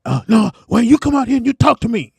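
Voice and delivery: mother calling out. Retold or imitated. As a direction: call him out like mama.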